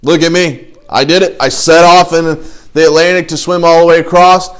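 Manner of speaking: hammed-up proud shout to the guys; dumb bragging. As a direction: crow about it like a clueless winner. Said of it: "How dumb would I look if I went".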